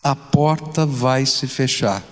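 low, slow, grave warning; solemn warning. Acted. Preacher delivering the parable's closing warning to the church, solemn. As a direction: warn them gravely, unhurried. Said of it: "uma advertência solene".

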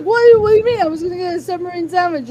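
high, loud protest in imitation; defensive friend. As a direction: imitate an indignant excuse. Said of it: "He's like".

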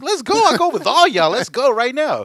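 loud, high-pitched fighting shout; heated yell, acting out a standoff; shouted challenge. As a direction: take on the whole group at full volume. Retells challenging the whole group.

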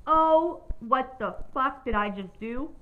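loud, high "oh", then slow disbelief; mock-panicked self-questioning; retold freak-out. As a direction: wail the first word, then stretch out the dismay. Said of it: "freaking out at this point".

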